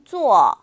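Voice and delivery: 坐 said as a clean falling zuò; 坐 spoken slowly for students to copy; modeled zuò. Shown as a demonstration. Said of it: "다시 한번".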